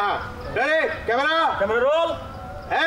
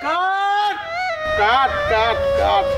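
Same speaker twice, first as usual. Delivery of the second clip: shouting cut; much slower than usual. Real, not acted. Director stops bad take.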